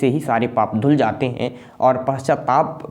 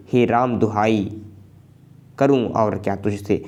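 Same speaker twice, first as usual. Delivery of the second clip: reciting Hindi verse with feeling; poem recitation. Acted. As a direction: recite it like a grieving queen's plea.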